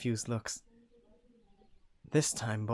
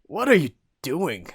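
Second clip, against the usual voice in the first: alarmed protest; 6 semitones higher, 10 dB louder than usual. Acted. Character protests sharply.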